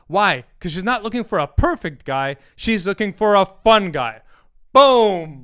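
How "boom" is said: loud boom. Real, not acted. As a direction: shout Boom, much louder. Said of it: "mic drop".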